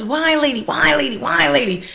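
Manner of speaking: imitated high-pitched call. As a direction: call it out repeatedly, high and eager. Ladies calling out to her.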